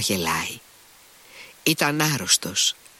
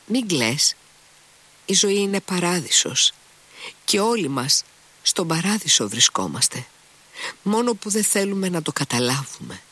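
fervent joy; 7 semitones higher than usual. A narrator's reading. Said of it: "της απαντούσε".

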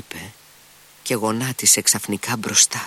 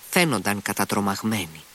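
ordinary delivery

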